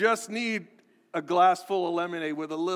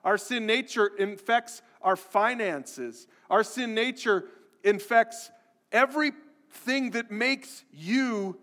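rising, louder, higher pulpit build; preaching at full force; 5 semitones higher, 4 dB louder, slower than usual. Acted. Pastor pressing the congregation about sin, building preach. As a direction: drive it home harder with each line.

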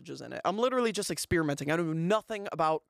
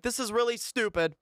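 retold self-scolding, pitched up; mock yell of frustration, higher; 5 semitones higher than usual. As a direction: berate yourself without really shouting. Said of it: "I, like, yell to myself".

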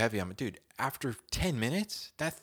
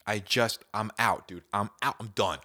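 mock giving up; 6 dB louder than usual. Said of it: "I'm like".

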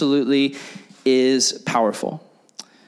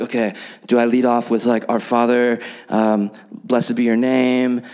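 lower, slowed, hammed-up pious phrasing; mock religious prayer voice; 3 semitones lower than usual. Planning a prayer at a meeting, mock pious voice. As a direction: play at sounding spiritual in prayer. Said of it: "these crazy, like, religious sounding prayers".

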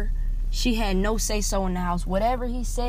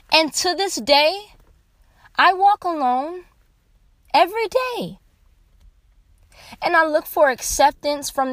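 raised, strained voice on the edge of tears; pouring out real hurt, pitched high and loud; crying out; 6 semitones higher, 4 dB louder than usual. Real, not acted. Tearful outburst about being alone.

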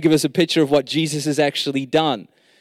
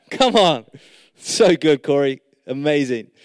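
cheering up a friend. Real, not acted. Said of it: "I'm just encouraging myself".

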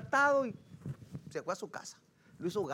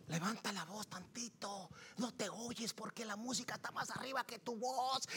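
very soft, held-back voice; hushed teasing; 11 dB quieter than usual. Retold or imitated. Husband telling his quiet wife to speak up, hushed. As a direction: tease her in a much softer voice.

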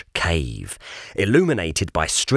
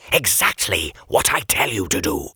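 put-on stern old gentleman; 3 semitones lower than usual. Sir Regulus voiced.

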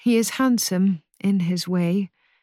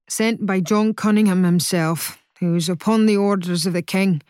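louder, quicker, puffed-up pride; prideful; 3 dB louder than usual. Acted. Cornet boasting of his orders to Ursa's father, proudly. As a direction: boast about who sent him. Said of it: "says Cornet pridefully".

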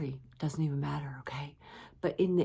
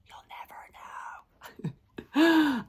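teasing; 11 semitones higher than usual. Acted. Teasing reveal.

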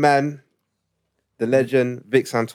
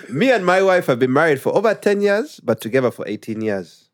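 put-on Ugandan accent; 2 semitones higher than usual. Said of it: "when I read it in Ugandan accent".

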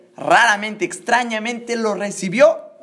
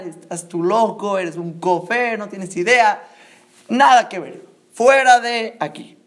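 mildly raised scolding that builds to a dismissal; acted angry shouting; 3 semitones higher, 4 dB louder than usual. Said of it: "empezó a gritar". (gritos de enojo actuados, cada vez más fuertes)

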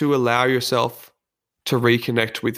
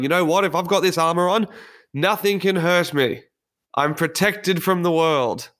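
higher pitch, self-assured and proud; mock bravado; 5 semitones higher than usual. Armored self reassuring itself, in mock bravado. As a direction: play the armored self, sure nothing can hurt.

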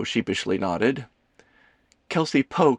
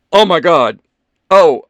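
much louder, high horrified gasp; 7 semitones higher, 12 dB louder than usual. Acted. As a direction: blurt it out aghast. Ethan horrified at his blunder.

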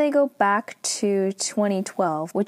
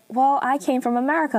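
quick, higher, freaked-out comeback; startled retort; 6 semitones higher, faster than usual. Retold or imitated. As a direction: blurt it out, rattled.

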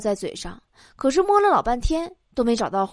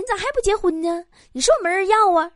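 men's belittling questions; 6 semitones higher, faster than usual. Retold or imitated. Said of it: "也有很多男人会问".

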